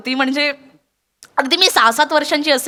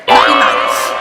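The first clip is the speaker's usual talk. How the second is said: shouted no; 5 dB louder, much slower than usual. Real, not acted. Shocked denial, unvoiced shout.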